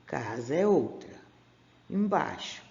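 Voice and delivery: slow, each word set apart; slow separated reading. Shown as a demonstration. Teacher separates words on the board for the class, slowly. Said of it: "Que nem aqui, ó".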